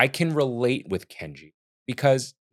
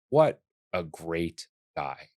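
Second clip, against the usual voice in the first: "what a great guy" drawn out word by word; slow it right down, pausing between "what a great guy"; weighty, spaced-out "great guy"; slow emphatic praise; 4 semitones lower, 5 dB quieter, slower than usual. Real, not acted.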